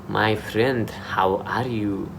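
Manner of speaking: lightly imitated Indian-accented greeting. Showing how Indians greet you in Dubai, Indian accent. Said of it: "Indians will say".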